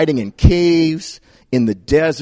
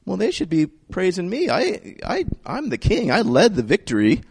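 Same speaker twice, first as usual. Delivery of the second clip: insecure muttering; 3 semitones higher, 9 dB quieter than usual. Retold or imitated. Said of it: "Saul starts getting self-conscious".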